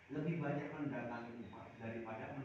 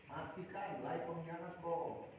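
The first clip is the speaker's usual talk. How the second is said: a slow, drawn-out mock taunt; preacher mimicking fans calling the boy a traitor, very slow; angry fan mob; 3 semitones higher, much slower than usual. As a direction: imitate a jeering crowd. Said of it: "dibilang pengkhianat".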